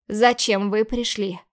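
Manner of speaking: slow, each word hammered out; slow and deliberate, every word stressed; clipped out word by word. A narrator's reading. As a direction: rap out every single word separately. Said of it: "Отчеканила каждое слово".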